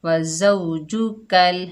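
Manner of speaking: slow, drawn-out Quranic recitation. Shown as a demonstration. Teacher reciting the word for pupils, slow chanted recitation. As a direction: recite it slowly, like tilawat. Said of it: "काफ को लाम से मिलाएंगे कल".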